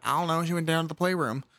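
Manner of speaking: lightly put-on country accent; mock rural country accent, mild. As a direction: answer with a hint of country accent. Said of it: "all have an accent".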